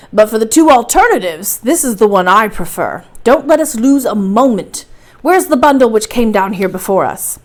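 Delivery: brisk professor. Acted. Professor reassuring his nephew about the descent, firm and loud. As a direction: declare it firmly, like a professor in charge.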